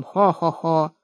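deep hearty ho-ho-ho; low bass chuckle. A narrator's reading. Old man floating up, laughing: deep bass chuckle. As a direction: chuckle down in the chest. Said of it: "посмеивался басом".

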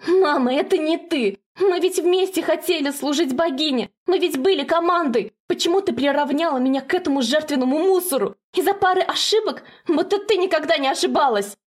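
a daughter screaming at her mother, beside herself; frantic yelling. Acted. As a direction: shout it high and out of control. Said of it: "орёт как не в себе Зела".

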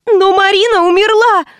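high shriek of panic. A narrator's reading. Administrator protesting to her boss, high panicked shriek. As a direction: squeal out in panic. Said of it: "взвизгнула плохо соображавшая администраторша".

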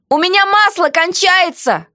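mock shout. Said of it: "крикнула я".

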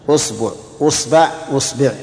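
أصبع with damma on the hamza, then the ba in three vowels; usbu with u. Shown as a demonstration. Teacher drilling students in the damma forms of أصبع, pronunciation demo. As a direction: say أصبع as usbu, usba, usbi. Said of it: "ضم الهمزة".

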